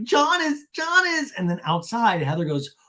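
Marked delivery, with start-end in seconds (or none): 0.0-1.3 high mock wail; hammed-up, broken-off protest; Shannon. Shannon sputtering about John, high mock distress. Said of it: "And Shannon's like".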